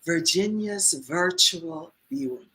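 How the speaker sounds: very slow, drawn-out impersonation; Virginia. Retold or imitated. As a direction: imitate her, stretching each phrase luxuriously. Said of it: "So she talks like this".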